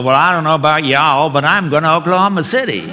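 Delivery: lightly put-on southern drawl; a hint of a Southern lady's drawl. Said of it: "she said in her southern drawl".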